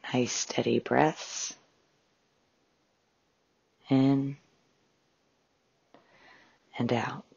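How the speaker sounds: measured meditation guide with long pauses; guided meditation. Acted. Host guiding listeners through a breathing exercise, calm meditation voice. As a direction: calmly guide listeners into relaxation, phrase by phrase.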